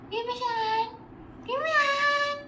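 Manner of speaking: high, lilting request. Real, not acted. Mother asking her baby for a hand, coaxing.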